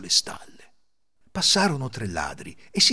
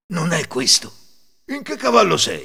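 calling out; 6 semitones higher, 6 dB louder than usual. Acted. Ladro cerca Cecino.

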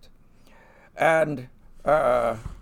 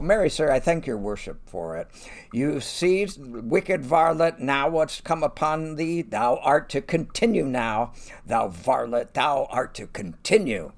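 loud, raised pitch, triumphant crowing at the villain; gloating constable; 6 semitones higher, 6 dB louder than usual. Acted. Constable Elbo gloats over Pompey, loud and raised. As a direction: crow it over him like a pompous constable.

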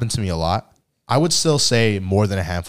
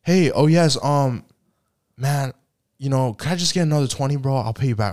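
borrower again; 5 semitones higher than usual. Retold or imitated. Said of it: "Two days later".

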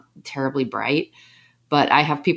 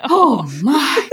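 high put-on old-lady sigh, a little louder; sighing sauna lady; 10 semitones higher, 5 dB louder than usual. Friend mimics the sighing lady in the sauna, high and moaning. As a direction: moan it like a weary lady settling in. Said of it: "and she'll walk in and she just goes".

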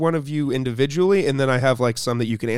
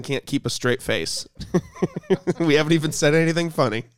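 laughing; 3 semitones higher than usual. Real, not acted. Host laughing about mom.

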